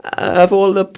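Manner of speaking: put-on rough Scandinavian accent, pitched high; a crappy Scandinavian accent. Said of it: "I'll try and do a crappy Scandinavian accent".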